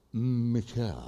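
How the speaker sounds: MICHELLE low, soft and drawn out, English style; pause, then carefully mouth MICHELLE with a melting L; effortful English Michelle. Retold or imitated. Husband addresses church sister after practising, effortful English Michelle. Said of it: "paraba, tomaba aire y decía".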